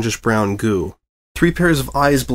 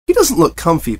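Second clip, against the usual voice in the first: bubbly pony voice; 6 semitones higher, 4 dB louder than usual. Acted. Pinkie voiced.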